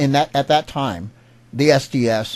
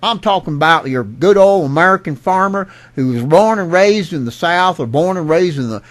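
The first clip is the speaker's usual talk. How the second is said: put-on sing-song good old American redneck accent, pushed louder; Bubba accent; 4 dB louder than usual. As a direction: imitate a Bubba farmer's Southern accent. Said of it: "what I mean by the Bubba accent".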